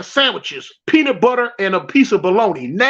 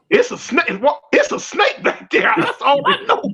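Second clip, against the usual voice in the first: scared refusal; 3 semitones higher than usual. Retold or imitated. Refusing to go in bushes.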